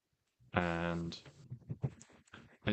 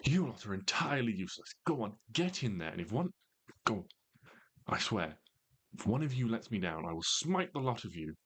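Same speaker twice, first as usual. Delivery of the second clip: commanding woman; 4 semitones higher than usual. Acted. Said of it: "a commanding feminine voice saying".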